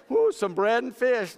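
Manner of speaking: put-on high, slow kid's voice; little boy. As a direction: answer like a proud small boy. The boy answers Andrew.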